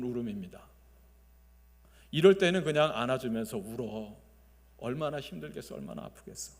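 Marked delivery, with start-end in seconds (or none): 4.8-6.5 soft hushed consoling words; comforting whisper. Retold or imitated. Consoling a grieving mother while hugging her, soft whisper.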